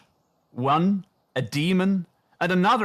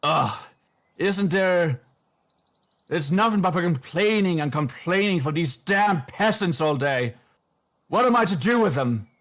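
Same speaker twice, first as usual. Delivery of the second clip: put-on old man puppet; 4 semitones higher than usual. Puppet old man complaining to the crowd, lightly voiced and grumbling. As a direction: moan about the peasants, a touch hammed-up. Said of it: "The old man".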